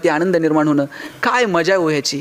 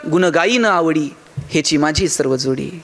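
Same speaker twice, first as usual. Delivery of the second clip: lower, measured devotional verse; verse recitation; 6 semitones lower than usual. Acted. Tukaram answering what he will do, measured recitation. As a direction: recite it slowly, sinking at the close.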